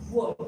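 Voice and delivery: WORD starting on rounded, kissing lips; "word" with lips coming together. Shown as a demonstration. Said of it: "kiss your W's".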